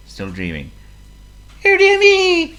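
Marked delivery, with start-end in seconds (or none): 1.6-2.5 very high, loud little mouse wail; dismayed squeak. A narrator's reading. John Mouse when his owner stays asleep, dismayed squeak.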